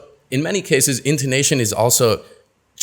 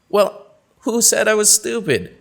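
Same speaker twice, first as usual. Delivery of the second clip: offended reply; 11 semitones higher than usual. Acted. Acted reply in dialogue.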